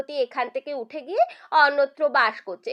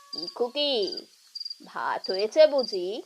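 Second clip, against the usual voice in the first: low, softened, kindly question; gentle to a child; 5 semitones lower, 3 dB quieter, slower than usual. Acted. Radhamohan asking the little girl about dinner, low and gentle. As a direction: ask softly, coaxing a shy child.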